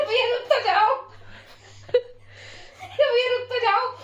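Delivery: pleading through real laughter; laughing plea. Real, not acted. Laughing while begging the rickshaw driver to stop.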